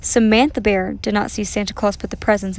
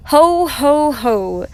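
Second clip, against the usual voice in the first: lightly played Santa laugh, starting high and loud; Santa's ho-ho-ho; 4 semitones higher, 4 dB louder, much slower than usual. A narrator's reading. Grandpa Bear plays Santa in the play, lightly voiced Santa laugh. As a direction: boom out the first ho, then ease down. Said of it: "He sounded just right".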